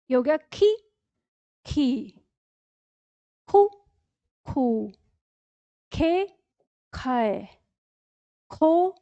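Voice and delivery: each syllable ख, खा, खी, खु, खू, खे, खो spoken slowly and separately; barakhadi drill. Shown as a demonstration. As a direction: clear slow recitation of every ख syllable with pauses between. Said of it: "मेरे साथ-साथ दोहराते रहिएगा". (ख की बारहखड़ी धीरे-धीरे साफ़ उच्चारण)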